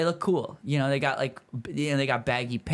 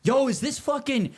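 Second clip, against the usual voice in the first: high, hammed-up excited gasp; buddy pretending to spot a famous band, hammed-up excitement; mock starstruck; 9 semitones higher than usual. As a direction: fake fan recognizing a famous band. Buddy feigns recognizing a band.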